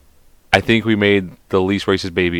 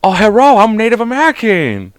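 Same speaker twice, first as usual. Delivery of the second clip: put-on high, loud caricatured Asian accent; hammed-up Asian accent greeting; mock Asian accent; 11 semitones higher, 4 dB louder than usual. Joking caricature, then told he's canceled.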